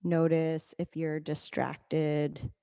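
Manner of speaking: calm, level guiding voice with long pauses; guided meditation. Acted. Leads breathing meditation.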